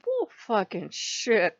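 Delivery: drawn-out contempt, slow; slow dismissive scoff. Retold or imitated. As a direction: lean on each word in scorn. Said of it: "I said".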